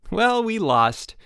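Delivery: high, slow, sunny drawl; upbeat counselor spin; said brightly. A narrator's reading. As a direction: make losing sound cheerful. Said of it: "said Chip brightly".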